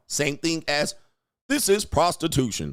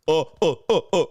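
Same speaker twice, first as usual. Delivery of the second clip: mock orangutan grunting, louder; ape grunts; 3 semitones higher, 5 dB louder, faster than usual. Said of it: "It's orangutan, fake alpha".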